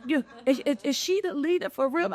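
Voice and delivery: put-on wide-eyed children asking if it's true; kids asking in wonder. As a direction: voice the kids' awe, up high. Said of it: "little chocolate boys and girls go".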